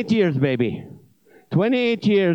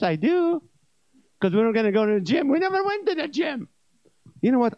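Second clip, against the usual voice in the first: jilted gut rant; 4 semitones higher than usual. Acted. Gut's complaint rising into a rant.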